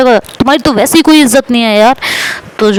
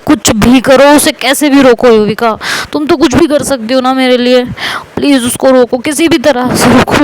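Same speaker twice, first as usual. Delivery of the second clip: desperate pleading; 3 semitones higher than usual. Retold or imitated. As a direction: beg her friend to stop it somehow. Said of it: "तो साइमा कहती है". (घबराकर गिड़गिड़ाना)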